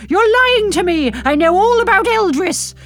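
loud accusing roar. Retold or imitated. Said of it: "him roaring".

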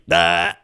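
loud ah. Retold or imitated. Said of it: "was just like".

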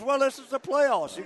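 high, slow, sly voice of the manager; a hint of a sly old manager; imitating the manager. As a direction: play it coy and innocent, then crack up. Imitating Lou's sly answer.

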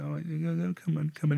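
very soft soothing; comforting. Retold or imitated. Cuddling the grieving ex, soft comfort. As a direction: hush him gently.

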